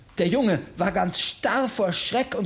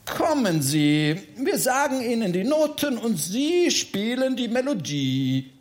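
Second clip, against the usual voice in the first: coaxing; 4 semitones higher than usual. Acted. Coaxing the Freiherr from the door.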